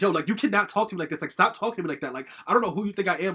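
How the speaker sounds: retelling a telling-off, mildly worked up; retold angry outburst. Daughter recounting spazzing on her mother, mildly angry. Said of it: "spaz on her".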